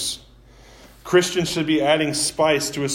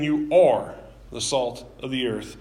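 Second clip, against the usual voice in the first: are pressed hard against can be and will be; stress on ARE; 2 semitones lower than usual. Shown as a demonstration. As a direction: land on the word are. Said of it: "He isn't saying you can be or you will be".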